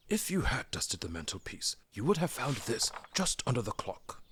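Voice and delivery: knowing reproach; Gandalf voice. Acted. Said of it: "said Gandalf".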